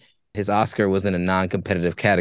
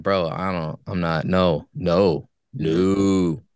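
uncomfortable denial; 6 semitones lower, much slower than usual. Retold or imitated. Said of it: "the dude was like, you could tell he was hella uncomfortable".

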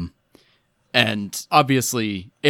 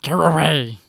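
high, pleading wail; desperate prayer; 8 semitones higher than usual. Acted. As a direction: plead in dread for someone to leave. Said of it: "he prayed".

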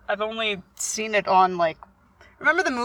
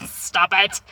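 laughing plea; 2 semitones lower than usual. Retold or imitated. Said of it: "and I'm like".

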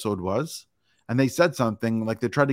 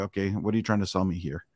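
suspicious aside; 4 semitones lower, 5 dB quieter than usual. Retold or imitated. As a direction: lower and softer, wary. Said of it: "you know right away".

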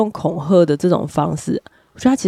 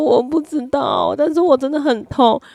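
higher-pitched imitation of tearful helplessness; mock crying; 6 semitones higher than usual. Mother and child crying together, imitated tearful high voice. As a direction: act out a tearful, overwhelmed mother. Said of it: "那我就两个人一起哭".

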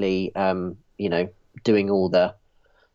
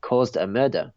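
put-on French accent. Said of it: "your French accent".

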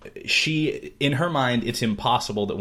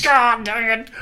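laughing frustration; 14 semitones higher, 8 dB louder, slower than usual. Retold or imitated. Realizing the pet mistake.

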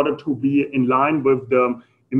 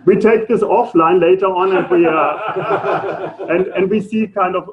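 laughing through words; 4 semitones higher than usual. Real, not acted. Still laughing after answer.

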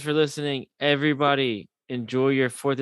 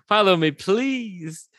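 mock pleading; 8 semitones higher, 3 dB louder, slower than usual. Repeated plea, drawn out.

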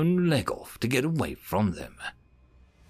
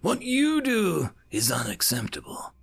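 higher, indignant outburst; raging; 8 semitones higher than usual. A narrator's reading. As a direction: rise up offended and fire it back. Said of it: "jumped to his feet and raged".

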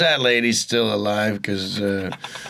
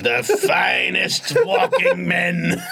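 slow, shouted announcer tag line; monster truck ad; 6 semitones higher, much slower than usual. Pretend. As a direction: drag it out like a trailer. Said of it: "a monster truck advert for it".

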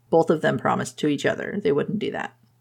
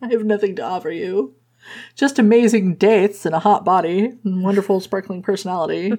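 a higher, hammed-up pitiful voice; mock self-pity; 4 semitones higher than usual. The speaker claiming he has nothing to offer, in hammed-up self-pity. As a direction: oversell the woe, then the joke.

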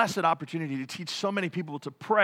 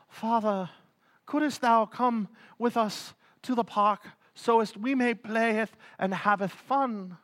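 slow, lightly voiced archaic pleading; a hint of a stilted old-English kid; mock King James child; 2 semitones higher, slower than usual. Imagined child asking father for the park in mock pious tone. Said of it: "they're like".

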